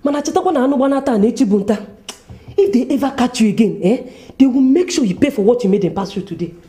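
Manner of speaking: laughing, teasing. Acted. Laughing companion teases him.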